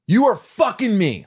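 imitated angry director. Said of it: "comes up to Schwarzenegger ... says".

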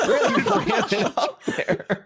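high, slow words squeezed out through laughter; laughing squeal. Real, not acted. Cracking up at the nose-swab joke, high and laughing.

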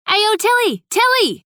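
high-pitched shout of a name; calling out. A narrator's reading. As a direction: yell to catch a friend's attention. Friend calls out, rushing over.

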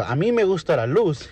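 schoolboy in a joke. Acted. Pepito answers the teacher in class, lightly acted schoolboy. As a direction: answer teacher like a little pupil. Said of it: "¿Y tú, Pepito, qué te gusta?".

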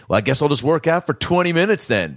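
a guy sulkily threatening to work out instead; mock threat. Gym guy threatening staff, imitated high and sulky. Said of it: "like, threatened them".

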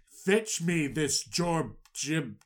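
slow, lightly regal fetch; a hint of an imperious pharaoh; royal command. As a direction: pharaoh ordering servants to bring Joseph.

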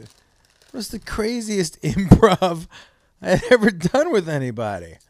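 talking while crunching; crunching chips. Real, not acted. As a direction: mouth full of chips. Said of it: "I'm sorry for the crunch".

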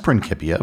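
"Principia" with a K sound, prin-KIP-ia; hard-C pronunciation. Retold or imitated. Host reads a listener's comment, "Principia" with a K. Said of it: "heard the word Principia with a K".

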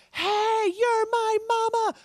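high, loud meowing-cat voice; pleading kitten voice, very high and loud. Retold or imitated. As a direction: squeal it like a desperate kitten. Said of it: "she's just screaming at me".

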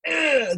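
imitated disgusted "ugh"; mock groan. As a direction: groan it as a put-on reaction to bad news. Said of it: "everybody goes".

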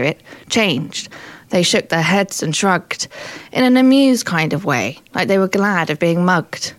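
measured spoken-word storytelling in verse; wry poem reading; poem recital. Acted. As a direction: recite your comic poem line by line. Performs own poem.

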